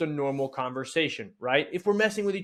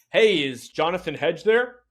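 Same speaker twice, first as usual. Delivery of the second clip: formal telemarketer; 6 dB louder than usual. Shown as a demonstration. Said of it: "here's what I won't say".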